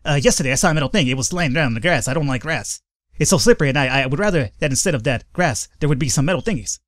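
lightly voiced fast jittery tweaker; twitchy slurred sniffing addict. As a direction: rattle it off like a nervous tweaker. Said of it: "act like he's a tweaker".

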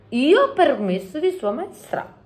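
exclaiming giant. A narrator's reading. Giant allowed by the queen, exclaiming gleefully. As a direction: proclaim it as a giant given leave. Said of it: "esclamò il Gigi".

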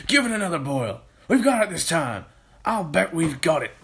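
high, forceful, eager voice; excited Mister Kilcranky. Acted. Mister Kilcranky sure the medicine will work, excited urging. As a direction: urge him on excitedly.

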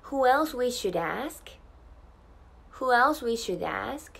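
slow question with a clear D in "should ask"; "should ask" as careful "shud-ask", rising at the end; stopped D linking. Shown as a demonstration. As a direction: hold the D of "should", link it to "ask". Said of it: "一旦止めた上でaskをつなげて".

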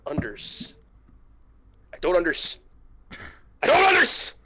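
from a whisper up to a high, loud cry; building outburst. Acted. Nick can't grasp Judy's words, building from whisper to shout. Nick fails to understand, escalating.

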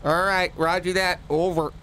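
high, cheery dimwit cop on the radio; high-pitched goofy radio voice; Jay Bergerman voice. Acted.

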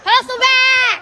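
yelling from the sidelines. Real, not acted.

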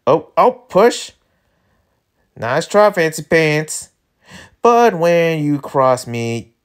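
lightly drawled cowboy villain; slow country drawl, lightly put on; Southern drawl character. Voices characters in the script.

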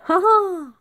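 high, loud cackling ha ha; witch's laugh. A narrator's reading. Witch laughing aloud on the stormy flight. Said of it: "The witch laughed aloud".

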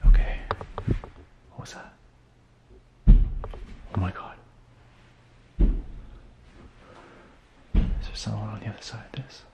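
hushed, frightened whisper; nervous night vlog whisper. Real, not acted. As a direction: whisper so nothing hears you. Hiding, whispering to camera.

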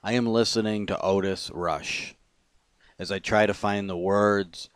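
measured spoken-word reading, pauses between phrases; poem reading. Acted. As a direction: read your own poem line by line. Reads own poem aloud.

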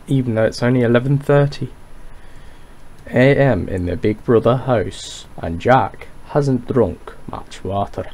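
lightly put-on Northern narrator, veering Scottish; shaky attempt at a Northern-Scottish accent; poor Scottish accent. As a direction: narrate like Big Brother in a bad Scottish accent. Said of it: "putting on a really poor Scottish accent".

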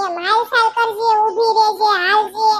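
imitating mom giving advice; mother's voice. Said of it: "મારી mummy મને એમ કીધું તું કે". (મમ્મીની જેમ હળવો પ્રેમાળ અવાજ)

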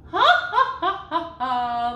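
high, loud bursts of laughter; demo laughter. Shown as a demonstration. Voice teacher leading sopranos in a laughing warm-up. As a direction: laugh the breath into motion. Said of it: "a little bit of laughter".

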